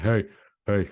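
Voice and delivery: put-on a light German accent on "Hey, hey"; a hint of a German man calling out. A German man at the Berlin pool calling out in a light German accent. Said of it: "I don't need a German accent".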